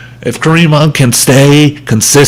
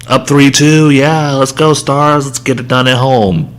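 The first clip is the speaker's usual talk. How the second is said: cheering tweet; 3 semitones higher than usual. Retold or imitated. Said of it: "I said".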